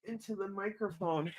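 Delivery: sniffly, stuffed-up voice. Real, not acted. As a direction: talk through a sniffly nose. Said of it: "Sorry, I'm sniffly".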